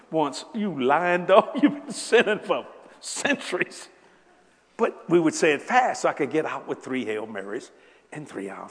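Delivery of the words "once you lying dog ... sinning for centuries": loud, slow playful rebuke; mock scolding. Preacher teasing the confessing sinner, loud mock rebuke. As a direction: scold the liar with a grin.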